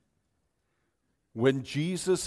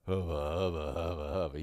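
lower, playful swoon; smitten hubba hubba; 8 semitones lower, faster than usual. Retold or imitated. Pastor describing his heart melting, playful swoon. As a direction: growl out a lovestruck hubba. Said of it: "it's like".

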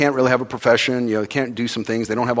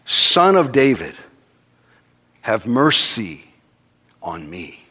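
slow pleading call, somewhat raised; crying out; slower than usual. Retold or imitated. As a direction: call out for mercy slowly. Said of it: "He cries out".

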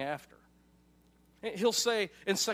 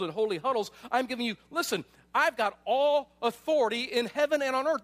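higher and louder, Jesus rallying his followers; voicing Jesus; 5 semitones higher, 4 dB louder than usual. Jesus commissioning his disciples, rising and louder. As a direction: proclaim it like a commander sending out troops. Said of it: "this is what Jesus wants his, the Talmudim, his disciples, to know".

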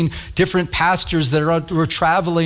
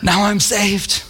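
mock smug boast; 4 semitones higher than usual. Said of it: "And say".

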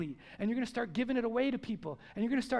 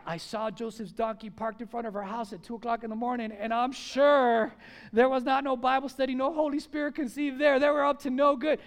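gossip; 5 dB louder than usual. Retold or imitated. Gossip acted scandalized.

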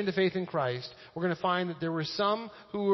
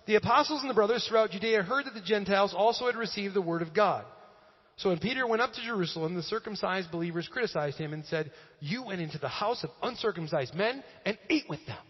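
raised, projected reading aloud; Scripture reading; 4 semitones higher than usual. Real, not acted. Pastor reading Acts chapter eleven, projected Scripture reading. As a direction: read it out to the whole room with emphasis.

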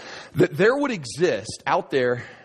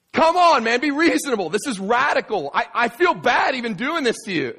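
pleading protest; 9 semitones higher than usual. Retold or imitated. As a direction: beg him to be reasonable. Seller pleads with buyer.

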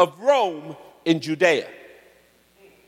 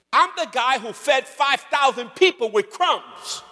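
lightly voiced streetwise buddy scolding his friends; preacher voicing Jesus as a street-talking friend; casual street talk; 5 semitones higher than usual. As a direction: talk to them like your boys, higher and loose. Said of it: "this is how he would have said it".

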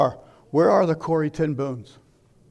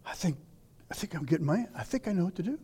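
hushed, musing half-whisper to oneself; quiet dawning realization; 9 dB quieter, faster than usual. Retold or imitated. Bible reader quietly realizing what God means, hushed. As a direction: let the answer dawn on you softly. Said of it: "and you go".

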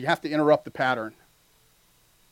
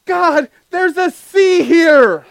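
very slow, loud and high protest; hammed-up alarm at the sea; mock panicked Moses; 13 semitones higher, 13 dB louder, much slower than usual. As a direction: drag it out in disbelief.

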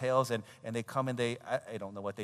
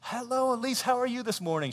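high singsong greeting; imitated chirpy school staff; cheery greeter; 10 semitones higher, 4 dB louder than usual. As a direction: greet a small child eagerly. Acting teacher greeting small child.

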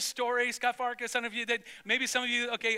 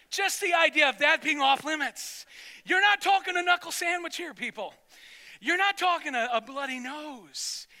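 much higher and louder, driving the point home; fiery preaching; 8 semitones higher, 7 dB louder than usual. Real, not acted. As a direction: preach it hard to the congregation. Preaching at full force.

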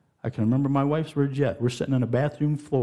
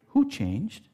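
louder higher question; 9 semitones higher than usual. Shown as a demonstration.

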